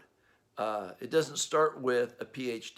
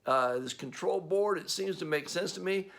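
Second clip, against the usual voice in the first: cocky know-it-all; 4 semitones higher than usual. Retold or imitated. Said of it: "you go".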